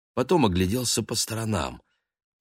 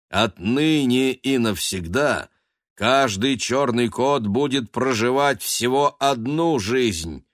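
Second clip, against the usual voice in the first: lightly voiced judges delivering a sentence, slightly raised; stern council verdict; 3 semitones higher, 3 dB louder than usual. Council of Six sentencing the black cat, a hint of solemn judges. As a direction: pronounce the cats' punishment with gravity.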